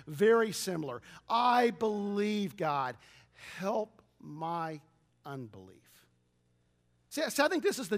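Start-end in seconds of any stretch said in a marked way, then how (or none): 1.3-6.1 pleading prayer. Retold or imitated. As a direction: beg God slowly, voice sinking at the end. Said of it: "hear the Father crying this out".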